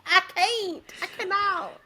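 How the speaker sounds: hammed-up helpless protest; laughing despair. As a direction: wail it while cracking up. Retold meltdown, breaking into laughter.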